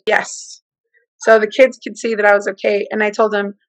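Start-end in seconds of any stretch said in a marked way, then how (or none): 0.1-0.6 whispered yes with no breath; breathless whispered yes. Retold or imitated. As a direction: barely get the word out. Short of breath answering.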